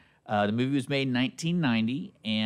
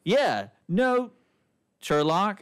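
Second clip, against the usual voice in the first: mock movie voice; 8 semitones higher, much slower than usual. Retelling movie dialogue.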